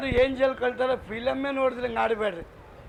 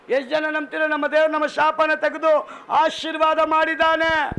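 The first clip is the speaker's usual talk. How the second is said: raised, ringing sermon voice; preaching declaration; 4 semitones higher than usual. Real, not acted. Preacher declaring blessing to believers, preaching emphatically. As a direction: proclaim it to the whole congregation.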